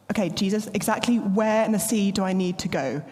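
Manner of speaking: hurried anxious questions, pitch climbing; fussy adultish worry. Retold or imitated. Peter quizzing Jesus about the fish, fussy and fast. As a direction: nitpick every detail like a worrier. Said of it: "stay in his adultish mindset".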